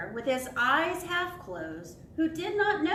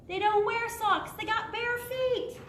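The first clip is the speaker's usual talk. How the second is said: excited punchline; 9 semitones higher, 3 dB louder than usual. Acted. Joke punchline to kids.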